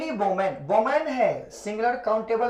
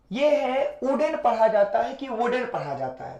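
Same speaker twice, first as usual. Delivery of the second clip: whispering wooden as "wooden"; teacher whispers wooden, then asks pupils to listen closely; 3 semitones higher than usual. Shown as a demonstration. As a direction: whisper wooden so they lean in. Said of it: "गौर से सुनिएगा".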